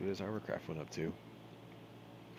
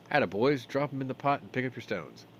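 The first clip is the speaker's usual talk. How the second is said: loud, higher dwarf gambler; rally the players as a hearty dwarf; jolly dwarf running the game; egging-on dwarf; 6 semitones higher, 7 dB louder than usual. Acted.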